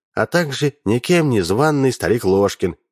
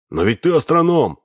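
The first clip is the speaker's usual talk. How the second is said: higher, mild wail of protest; wailing cry; 6 semitones higher than usual. Acted. Misha protesting to Alina, a mild mock wail. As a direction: plead in disbelief. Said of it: "возопил Миша".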